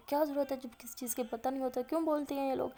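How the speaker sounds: mildly acted grumbling rant; a touch of indignant griping; sulky anger. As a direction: complain in a retold huff. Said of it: "غصے میں نا منہ چڑھا کے بولتی".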